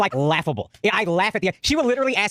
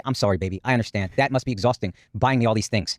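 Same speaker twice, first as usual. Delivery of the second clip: imagined sweet reply; 8 semitones lower than usual. Retold or imitated. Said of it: "I want her to say".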